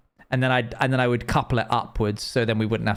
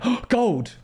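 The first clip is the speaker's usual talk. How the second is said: much higher, thrilled squeal at the gold; excited shout; 11 semitones higher than usual. Retold or imitated. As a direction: yelp with greedy delight at the find. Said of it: "I literally just went".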